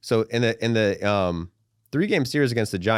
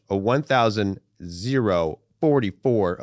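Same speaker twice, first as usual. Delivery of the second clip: slow odd phrasing; slower than usual. Shown as a demonstration. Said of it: "that's a funny way to say it".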